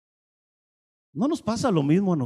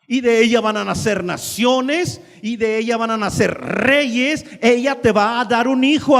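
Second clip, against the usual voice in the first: God's insistent promise; 3 semitones higher, 4 dB louder than usual. Acted. God repeating promise to Abraham.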